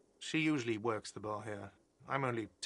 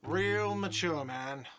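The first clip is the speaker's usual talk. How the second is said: sarcastic; 4 semitones higher, slower than usual. Acted. Sarcastic jab at departing detective.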